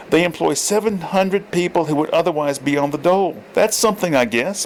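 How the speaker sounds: put-on lines read in the old man's voice by mistake; wrong character voice. Shown as a demonstration. Reader voicing Borden's line in the wrong voice, lightly. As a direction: slip into Thorpe's voice by accident. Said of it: "I read it in the wrong voice".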